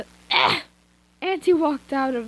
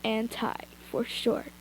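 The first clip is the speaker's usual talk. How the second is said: villain whisper; 7 dB quieter than usual. Acted. Villain Anti introduces himself.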